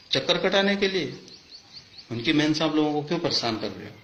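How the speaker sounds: high-pitched accusing questions; indignant challenge. Real, not acted. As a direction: confront them, pitch climbing on each question. Accusing questions thrown at officers. (आक्रोश भरे सवाल, ऊँचे सुर में)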